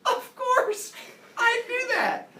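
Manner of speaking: very high, breezy "of course, I do that"; teacher joking about students' own level of love; mock casual. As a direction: toss it off as if sleeping in a tomb were normal. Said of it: "You're like".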